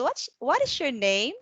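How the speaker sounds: asking a name with a rising end; rising question. Shown as a demonstration. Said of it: "your voice is rising".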